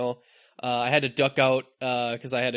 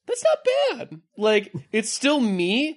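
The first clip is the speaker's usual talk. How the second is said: campy drag queen; 9 semitones higher, 3 dB louder than usual. Retold or imitated. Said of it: "It kinda makes you sound like a drag queen".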